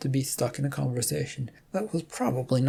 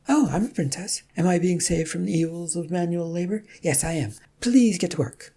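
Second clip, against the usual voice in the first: higher, sardonic and bossy; mocking princess; 4 semitones higher than usual. Rum mocking being saved from manual labor, sardonic. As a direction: tease him, then order him back to work.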